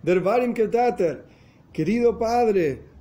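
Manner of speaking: high, slow mild pleading cry; a retold, understated cry of supplication. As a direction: beg the dear father, drawn out. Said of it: "gritaba con voz de súplicas".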